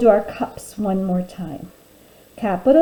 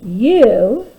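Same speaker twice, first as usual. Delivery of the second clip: each word slow and loud with long gaps; teacher dictating while the class writes; word-by-word dictation; 4 dB louder, much slower than usual. Shown as a demonstration. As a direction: dictate one word at a time for writing. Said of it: "Let's go ahead and do that together".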